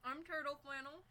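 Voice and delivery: put-on high cute anime girl. Introduces herself as anime girl.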